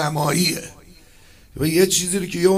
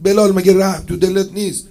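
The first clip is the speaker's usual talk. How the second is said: a hint of the Prophet's stern rebuke, a little louder; 3 semitones higher, 4 dB louder than usual. Prophet rebukes Bilal for leading the captive past the dead, stern. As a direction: scold Bilal mildly, as the Prophet reproaching him. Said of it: "پیغمبر تشر زد".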